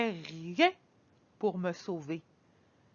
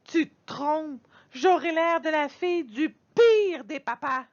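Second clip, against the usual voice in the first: tearful complaint; 8 semitones higher, 3 dB louder than usual. Acted. Girl protests, near tears.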